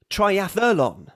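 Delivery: triathlon with an extra vowel, tri-ath-a-lon; American triathlon. Shown as a demonstration. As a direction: add an a-sound inside triathlon. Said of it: "the second version is American".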